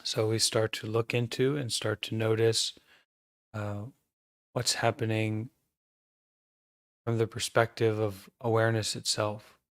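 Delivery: calm, measured meditation guidance with long pauses; guided meditation. Acted. Teacher guiding an online group to notice their breathing, calm meditation voice. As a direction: guide the group gently into awareness, leaving silences between phrases.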